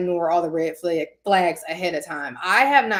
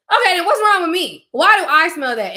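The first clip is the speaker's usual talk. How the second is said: high confused; 10 semitones higher, 7 dB louder than usual. Retold or imitated. Confused at herself.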